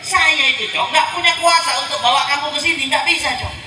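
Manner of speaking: high-pitched disclaimer of responsibility; Iblis. Acted. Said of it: "Kata Iblis".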